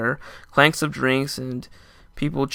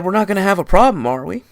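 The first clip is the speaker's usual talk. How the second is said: veiled threat; 7 semitones higher, 8 dB louder than usual. Retold or imitated. Boss threatening the narrator.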